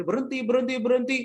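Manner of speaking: high loud frantic pleading; shouting stop. Acted. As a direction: scream at them to stop. (teriakan minta berhenti)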